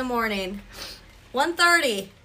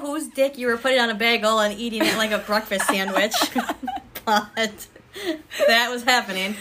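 laughing; 3 dB louder than usual. Real, not acted. Laughing at the voice memo.

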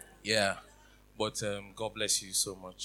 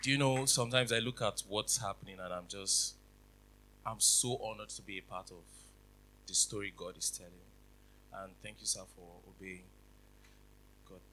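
shaking voice. Real, not acted. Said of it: "Why is my voice shaking?".

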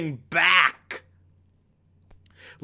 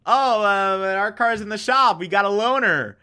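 higher, rushed mock-casual cover story; nervous excuse; 5 semitones higher than usual. Philip and Elizabeth covering for the car, higher mock-nervous. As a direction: sell the lie a bit too brightly.

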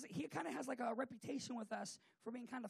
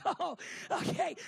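drawn-out, loud, higher mock surprise; slow, exaggerated acted reaction; retold realization; 5 semitones higher, 9 dB louder, slower than usual. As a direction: let it dawn on you, hammed-up. Retold dawning realization at uncle's admission.

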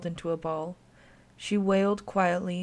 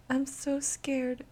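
put-on scared child; 7 semitones higher, 3 dB quieter, much slower than usual. A narrator's reading. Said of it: "Her breathing was shallow and rapid".

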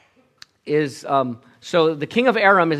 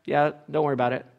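softer, unbothered reassurance; totally calm; 3 semitones lower, 5 dB quieter than usual. Retold or imitated. Elisha calmly reassures his panicked servant, softer. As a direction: shrug off the danger calmly. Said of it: "Elisha's just totally calm".

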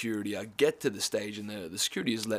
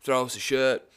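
louder mock call to the stage; half-strength shout; retold yell; 2 semitones higher, 6 dB louder than usual. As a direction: imitate yelling for a favour from the crowd. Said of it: "I yelled".

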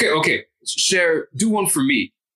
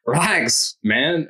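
sudden shout; 4 semitones higher, much slower than usual. Acted. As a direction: blurt it out to get attention. Acted scene, sudden shout.

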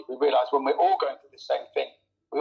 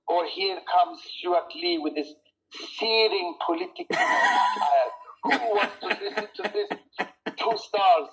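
mock snooty reviewer; 4 semitones higher than usual. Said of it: "getting a review saying".

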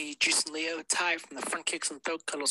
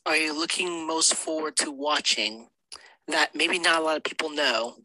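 sexy sultry voice. Pretend. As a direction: try to sound seductive. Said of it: "sexy, sultry voice".

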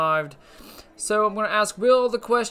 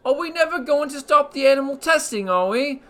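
a hammed-up British accent, lightly done; put-on British accent; 2 semitones higher, 4 dB louder than usual. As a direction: play a cheeky British host with a put-on British accent. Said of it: "That's a nice accent you have".

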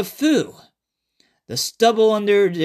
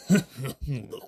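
gargling monster laugh; 5 semitones lower, 6 dB quieter than usual. Acted. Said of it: "became a bunch of water gargles".

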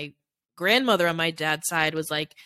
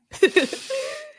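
high laugh through rising tears; teary laugh. Real, not acted. Embarrassed at crying on the show, teary high laugh. Laughs while starting to cry.

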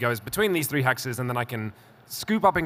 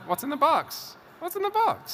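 high, wailing movie quote; Brad Pitt; 13 semitones higher than usual. Retold or imitated. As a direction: wail it in anguish. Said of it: "In the words of Brad Pitt".

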